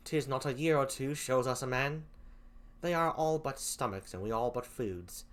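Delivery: put-on lightly done English accent; half-hearted English accent. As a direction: read it in a shaky English accent. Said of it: "I apologize for the crappy English accent".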